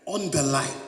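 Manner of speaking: "on the light" said as a Nigerian English idiom; Nigerian English phrase. Shown as a demonstration. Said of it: "that's not proper English".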